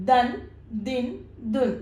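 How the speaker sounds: ദൻ, ദിൻ, ദുൻ as separate syllables, each closing on n; teacher modelling ദൻ, ദിൻ, ദുൻ with short pauses between; pronunciation demo. Shown as a demonstration. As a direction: sound out ദൻ, ദിൻ, ദുൻ one by one. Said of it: "pronunciation എങ്ങനെയാണ് വരുന്നത്".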